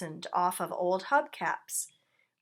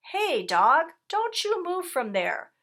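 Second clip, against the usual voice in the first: loud, higher call; 9 semitones higher, 5 dB louder than usual. A narrator's reading. Rat calling over to the sick dog, loud. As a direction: call across the yard. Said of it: "called Rat".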